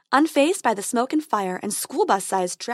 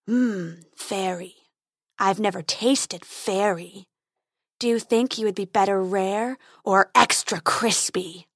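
growling dragon guarding treasure; 2 semitones lower, slower than usual. Acted.

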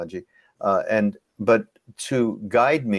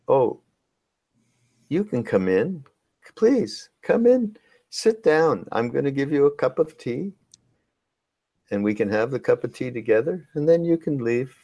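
much higher, gently welcoming host voice; Ram Dass; 5 semitones higher than usual. Retold or imitated. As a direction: invite an unwanted guest in sweetly. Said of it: "he would say".

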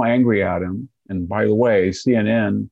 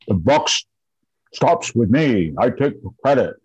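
imitating senile screaming. Commentator mocking Biden's speech on Afghanistan, imitated senile screaming. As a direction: deliver a half-shouted parody of a grim old president. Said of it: "this senile screaming at the microphone".

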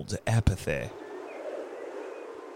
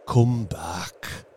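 tender. Acted. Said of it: "he said tenderly".

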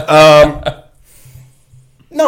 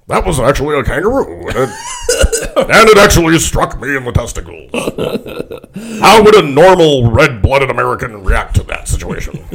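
Nixon impression; 2 semitones higher, 4 dB louder than usual. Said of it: "he'd actually have to, like, process the thought".

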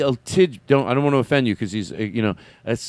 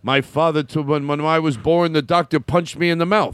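Rodney impression. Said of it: "Hey, Rodney".

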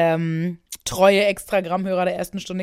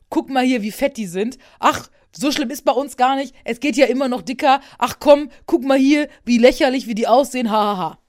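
mocking; 5 dB louder than usual. Mocking voice of the TV show.

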